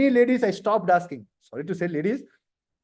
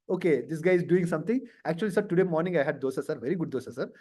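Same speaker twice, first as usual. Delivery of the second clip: rambling candidate; 4 semitones lower, 4 dB quieter, faster than usual. Retold or imitated. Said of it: "Don't extend the topic".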